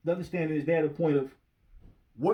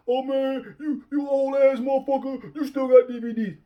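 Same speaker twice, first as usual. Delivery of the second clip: much higher, louder taunting voice; mock young commenter; 9 semitones higher, 5 dB louder than usual. Mocking the commenter who teased his DVDs, in a high taunt. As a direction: sneer like a young troll. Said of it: "the idiot that made the comment".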